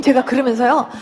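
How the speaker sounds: usual speaking voice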